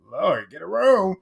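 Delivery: high, drawn-out mock scolding; mock exasperation. Mock exasperation at kissing couple.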